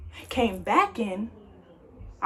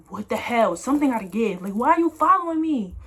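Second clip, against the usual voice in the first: mad and scared; 4 dB louder than usual. Retold or imitated. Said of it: "I was so mad and scared".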